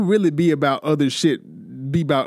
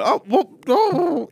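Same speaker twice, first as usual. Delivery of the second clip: mock startled yelps; 11 semitones higher, much slower than usual. Imitating friend fumbling a catch.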